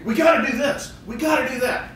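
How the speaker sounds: mimicked pushy brother. Client mimicking his bossy brother, pushy high voice.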